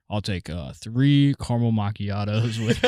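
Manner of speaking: lightly voiced drive-thru order; mock drive-thru voice. Ordering three caramel macchiatos, lightly put-on low voice. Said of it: "a different man inside you when you order".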